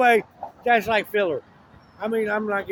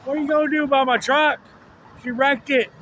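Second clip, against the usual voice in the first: angry James; 5 semitones higher, 4 dB louder than usual. Retold or imitated. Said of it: "he's like".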